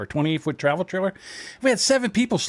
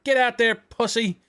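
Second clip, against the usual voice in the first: gruff father; 6 semitones higher than usual. Retold or imitated. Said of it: "they're like".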